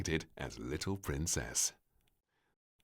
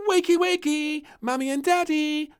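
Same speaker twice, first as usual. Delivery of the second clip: put-on high, loud child's wake-up call; excited cry; 13 dB louder than usual. Little Princess waking her parents, excited high cry. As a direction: shout them awake with glee. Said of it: "cried little Princess".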